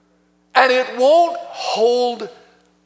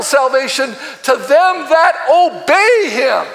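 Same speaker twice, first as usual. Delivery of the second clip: forceful preaching; 3 semitones higher than usual. Acted. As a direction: drive each point home to the congregation.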